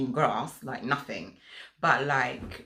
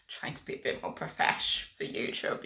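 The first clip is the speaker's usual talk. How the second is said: laughing. Real, not acted. Laughing aside.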